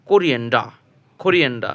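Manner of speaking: কোরিয়েন্ডা said with a firm k sound at the start; hard c sound. Shown as a demonstration. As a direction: open কোরিয়েন্ডা on a crisp k. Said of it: "এখানে সির উচ্চারণ হচ্ছে ক".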